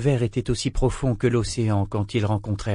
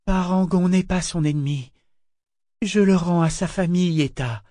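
higher-pitched, patient insistence; gentle but firm; 7 semitones higher than usual. A narrator's reading. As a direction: explain kindly without yielding. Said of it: "doucement mais fermement".

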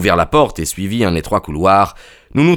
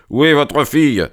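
higher, mildly shouted challenge; indignant demand; 6 semitones higher than usual. A narrator's reading. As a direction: demand it with a touch of outrage. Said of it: "lui cria-t-il". (interpellation indignée)

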